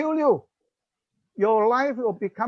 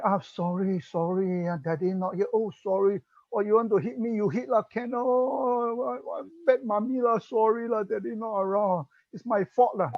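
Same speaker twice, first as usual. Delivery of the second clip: the wrong way: grovel and give in; mock-anxious mommy apologising to the child; pleading, giving-in mother. Shown as a demonstration. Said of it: "Do not agree and tell him".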